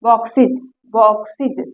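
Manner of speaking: बॉक्सेज with a clear iz syllable at the end; बॉक्सेज said as box plus iz; demo iz ending. Shown as a demonstration. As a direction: land on the final iz of बॉक्सेज. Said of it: "इज आ रहा है".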